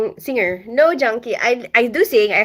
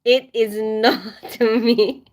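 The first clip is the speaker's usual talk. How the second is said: laughing denial; much slower than usual. Real, not acted. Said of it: "denying it jokingly".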